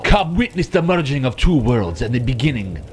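a touch of grand villain proclamation; lightly voiced gloating villain. Boss proclaiming a new world order, lightly voiced villain. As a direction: announce it as a scheming boss, lightly.

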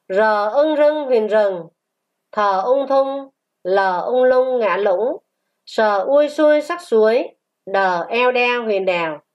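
sing-song spelling aloud; spelling drill. Shown as a demonstration. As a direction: sound out each word for the class. Teacher spells out picture words. (đánh vần ngân nga)

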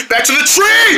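high pretend alarm; urgent cartoon yell, rising in pitch; panicked cry. Squirrel flees returning dog, panicked cry.

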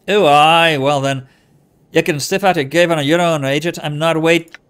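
loud, dismissive put-on accent; Anna's made-up accent. Anna refusing to wait for you, put-on accent. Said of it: "it's her accent".

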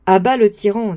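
loud, playful protest cry; boisterous table rebel yelling at the speaker; mock rebel shout. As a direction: shout him down like a mob. Friends rebel against the speechmaker.

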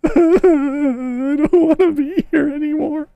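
half-crying nervous laugh. Real, not acted. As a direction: laugh it out, shaken. Laughing through fear.

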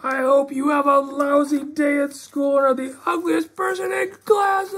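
shouted, spiteful jab; grumpy kid yelling a mean wish; grouchy insult. Acted. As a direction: hurl it after her as she leaves. Grouchy puppet insults friend.

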